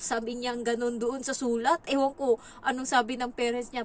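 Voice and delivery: usual speaking voice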